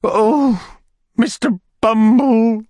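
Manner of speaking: high, fluttery widow voice; fussy widow voice. A narrator's reading. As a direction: play the flustered widow, pitched high. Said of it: "cried the lady".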